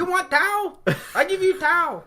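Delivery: put-on loud, very high Asian-accented caricature; ornery mock Asian accent. ER staffer questioning sick patient, ornery mock Asian accent. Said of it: "She's like".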